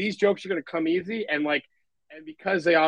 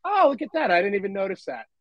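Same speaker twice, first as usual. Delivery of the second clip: mock surprise; 4 semitones higher than usual. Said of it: "and you're like".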